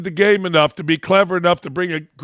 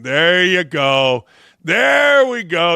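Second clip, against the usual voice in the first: gleeful approval; 3 dB louder, slower than usual. Real, not acted.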